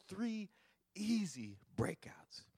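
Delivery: slow whispered emphasis. Acted. Preacher hushes the church for notes, whisper. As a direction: lean in and breathe it.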